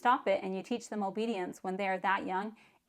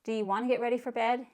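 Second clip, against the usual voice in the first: asking; 4 semitones higher, faster than usual. Shown as a demonstration. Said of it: "Don't ask them the question".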